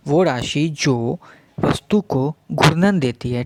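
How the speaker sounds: slow, deliberate definition for students; slow, carefully paced explanation; slow teaching. Shown as a demonstration. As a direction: spell it out word by word. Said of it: "मैं धीरे धीरे बोल रहा हूँ".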